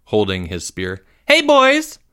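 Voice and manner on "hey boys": high, loud mother's call; loud female voice. A narrator's reading. Mother calling boys from outside trailer, loud and clear. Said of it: "a female voice so loud and clear".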